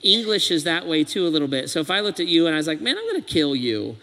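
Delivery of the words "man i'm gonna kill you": casual threat tone. Shown as a demonstration. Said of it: "that's one tone".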